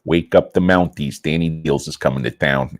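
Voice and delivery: lightly put-on Polish-type accent. Announcing himself to the Mounties, mock Polish accent. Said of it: "I'll use a Polish type, uh, accent".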